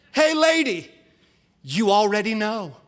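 loud cheeky bird punchline; parrot. Acted. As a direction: taunt like a smug talking parrot. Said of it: "and he goes".

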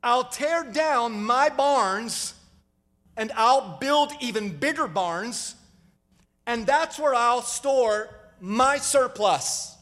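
very slow, savoring each plan; a hint of a smug rich man, drawn out slowly; slow scheming rich man. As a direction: spell out the scheme like a man pleased with himself. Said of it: "Imagine this".

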